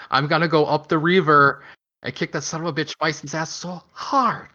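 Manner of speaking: mock Van Damme's Belgian accent in an action line. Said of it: "no American would say it like that".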